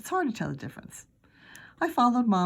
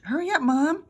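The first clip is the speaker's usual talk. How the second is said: louder, urgent call to mom; 9 semitones higher, 6 dB louder than usual. Acted. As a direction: shout it, hurry her up. Peter calling mom urgently.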